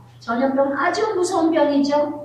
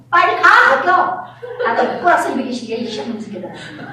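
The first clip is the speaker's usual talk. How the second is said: laughing mock yell; 2 semitones higher, 3 dB louder than usual. Mother orders kids off, laughing.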